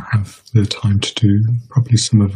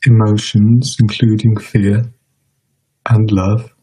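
measured meditation guidance with long pauses; guided meditation; 4 dB louder than usual. Real, not acted. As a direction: guide listeners unhurriedly, leaving space between phrases.

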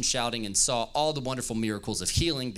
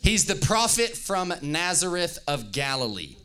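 much higher, louder cry for the whole story; uproar; 6 semitones higher, 5 dB louder than usual. Acted. Preacher reading loudly to stir up the church's uproar. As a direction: whip up an uproar. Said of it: "Give me your best uproar".

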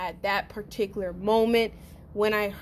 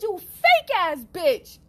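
retold insult; 9 semitones higher, 4 dB louder, slower than usual. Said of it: "I said".

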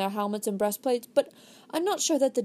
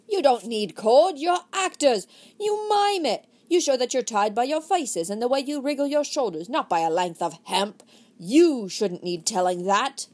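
impatient lecture; 3 semitones higher, 4 dB louder than usual. Acted. Desmond scolding about miming.

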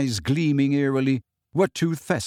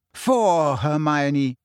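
scowling; much slower than usual. Acted.

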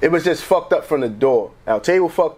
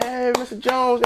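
slow greeting; 7 semitones higher, 3 dB quieter, slower than usual. Retold or imitated. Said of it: "They're like".

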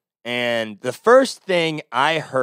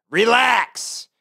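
exasperated relax; 8 semitones higher, 4 dB louder than usual. Retold or imitated. Exasperated retort.

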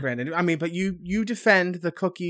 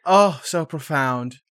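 sarcastic; 4 semitones lower, slower than usual. Acted. Mock praise.

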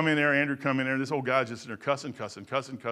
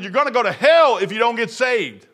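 retold warning; 6 semitones higher, 9 dB louder than usual. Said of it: "I said".

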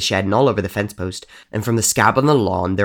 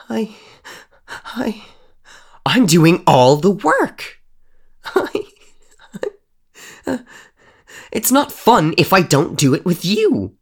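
high, halting and slow; a scared girl stammering excuses; frightened stammer; 11 semitones higher, 6 dB louder, slower than usual. Acted. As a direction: stumble over the words in fear. Ava stammering under the glare.

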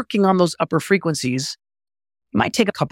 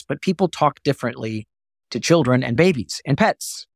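usual speaking voice

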